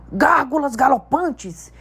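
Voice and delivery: big, emphatic giant's voice, building; giant Hagrid. A narrator's reading. Hagrid telling Harry about his world, emphatic. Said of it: "disse Hagrid".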